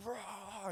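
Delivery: high, soft mock roar; imitated crowd screech. Hearing the crowd's voice after a knockout, imitated screech. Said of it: "like, screeching".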